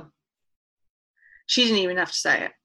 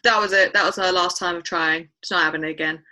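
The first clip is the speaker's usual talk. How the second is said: blunt; 5 dB louder than usual. Retold or imitated. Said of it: "I was really, really blunt".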